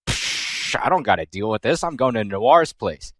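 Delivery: tossed-off lazy dismissal, a bit fast; dismissive Neptune. Retold or imitated. Neptune shrugging off Histoire, low fast brush-off. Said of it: "Neptune is all like".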